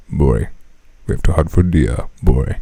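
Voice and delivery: low, stern hunting order; Kratos voice. Pretend. Samurai dad telling his son to hunt, deep. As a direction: growl the command like a grim father. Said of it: "we're like".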